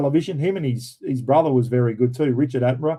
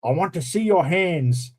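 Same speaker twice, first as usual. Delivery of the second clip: lightly imitated Scottish film-star accent, pitched up; Sean Connery; 4 semitones higher than usual. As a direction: imitate a recruit's Scottish actor impersonation, slowing on the last order. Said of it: "in his Sean Connery accent".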